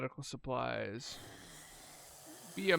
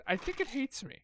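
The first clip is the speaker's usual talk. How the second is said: much higher, whiny self-pity; whiny complaint; 10 semitones higher than usual. Real, not acted. Player whining that the game hates him, high and whiny. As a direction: whine it like the world is against you.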